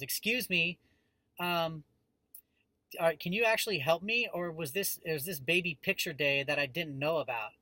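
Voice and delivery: imitating an annoyed woman in line; mock-polite, impatient interruption; irritated customer. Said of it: "lash out like that".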